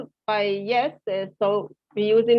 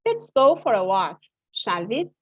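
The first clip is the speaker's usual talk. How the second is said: "shall we?" lifting up at the end; rising tag. Shown as a demonstration. Teacher suggesting a walk to the class, rising. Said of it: "The voice goes up in this case".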